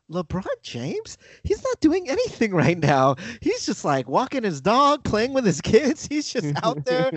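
high, mock-innocent defence; oblivious media. Host voicing media defending LeBron, mock innocent. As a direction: pitch it up as if nothing is going on. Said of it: "all the media is saying".

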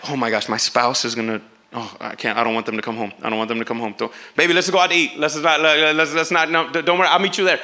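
low, panicky guilty spouse; low nervous stalling. Retold or imitated. Guilty spouse stalling partner, low nervous pleading.

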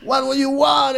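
put-on high Arabic-accented English; Arab bartender voice. Bartender takes their order, high Arab-accented English. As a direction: ask it like the Arab barman. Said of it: "era como árabe".

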